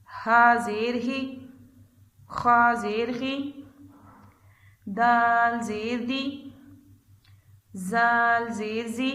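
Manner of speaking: put-on slow, measured letter-by-letter chant for children; drawn-out classroom recitation of Arabic letters; slow qaida recitation. Shown as a demonstration. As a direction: spell each letter out slowly and clearly. Teacher chants qaida letters slowly.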